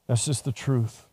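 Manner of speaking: soft, low and sober; quiet repeat. Real, not acted. Preacher owning up to his past, quiet sober admission. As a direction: let it drop to a hushed, low statement.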